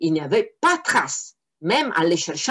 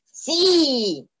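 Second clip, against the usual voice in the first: higher sulky devil reply; first devil answers; 8 semitones higher than usual. Acted. First devil confirms it's hell, a light creature voice. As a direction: grunt yes like a grumpy imp. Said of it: "répondit la première voix".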